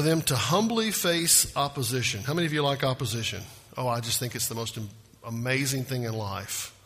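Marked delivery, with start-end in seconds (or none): 3.8-6.7 dry sarcasm, lower and brisk; sarcastic. Real, not acted. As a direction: feign enthusiasm with dry, low-key sarcasm. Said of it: "y'all catching the sarcasm there".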